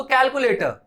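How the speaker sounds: कैलकुलेटर ending on a light short r; कैलकुलेटर with the final r kept small; calculator, short r. Shown as a demonstration. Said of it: "ये pronunciation होना चाहिए".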